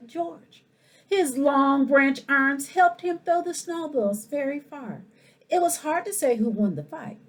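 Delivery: lively, expressive picture-book reading; animated storytime voice for the whole school; reading to children. Acted. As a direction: read it like storytime for little kids. Principal reads picture book aloud.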